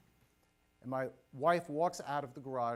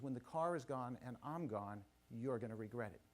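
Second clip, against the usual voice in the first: imitating a wife's quiet warning; understated, composed menace; calm retold threat; 5 dB quieter than usual. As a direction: quote her evenly, without raising the voice. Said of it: "very calmly, just looks me in".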